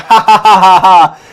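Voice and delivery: hammed-up chummy laughter; acted hearty laughing. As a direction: laugh it up like you're chummy with the captain. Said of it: "laughing with the captain".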